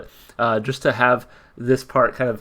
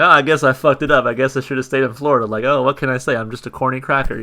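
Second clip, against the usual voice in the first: carefree singer impression; 2 semitones higher, 4 dB louder, faster than usual. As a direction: shrug it off like a goofy slacker. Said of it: "So I'm like".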